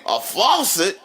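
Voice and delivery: mimicked incredulous question; imitating a baffled kid; incredulous son. Son questions dad's answer in disbelief.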